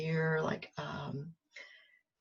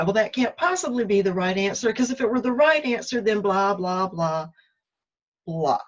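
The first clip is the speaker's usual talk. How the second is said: arguing excuses; 3 semitones higher, 5 dB louder than usual. Retold or imitated. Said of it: "arguing with all the re-, th-, reasons why".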